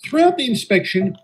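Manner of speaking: steady storytelling voice, looking back; story narration. A narrator's reading. Engine narrator telling listeners of the inspection, calm narration. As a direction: recount the tale evenly like a memoir.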